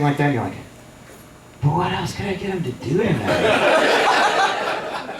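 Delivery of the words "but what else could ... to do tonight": high, slow scheming voice; evil inner voice. Retold or imitated. His evil brain plotting against his drunk buddy, high and scheming. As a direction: draw it out as the evil part of a brain. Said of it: "evil part of your brain".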